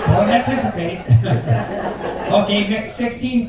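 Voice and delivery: words broken by real laughter; can't hold back the giggle; laughing at his own joke mid-line; laughing through words. Real, not acted.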